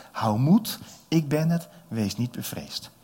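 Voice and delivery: Jesus speaking. Acted.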